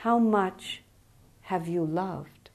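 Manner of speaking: soft, slow, unhurried question; very calmly. Retold or imitated. Jesus calmly repeats his question to the young man. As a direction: ask it calmly, with no judgment. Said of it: "Jesus, very calmly".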